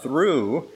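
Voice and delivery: "through" lifted out of the sentence; emphasis on through. Shown as a demonstration. Preacher reading with inflection for a listening assignment, "through" stressed. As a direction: give "through" extra length and pitch. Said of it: "to emphasize a word".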